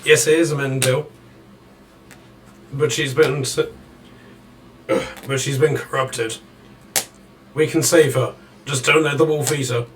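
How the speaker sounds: half-shouted urgent warning; mild acted shout. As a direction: call it out, holding back from a full shout. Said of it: "he basically shouts to you".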